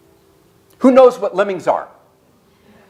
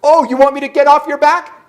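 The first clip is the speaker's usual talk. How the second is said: higher, louder mock sarcasm; sarcastic comeback; 8 semitones higher, 5 dB louder than usual. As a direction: fire it back as a mock-offended wife. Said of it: "And then Bobby goes".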